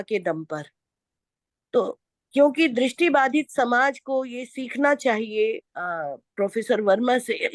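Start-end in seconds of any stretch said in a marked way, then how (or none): 1.7-7.5 sore-throated, rough speaking voice; hoarse voice. Real, not acted. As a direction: talk through a bad throat. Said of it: "मेरा गला बहुत खराब है".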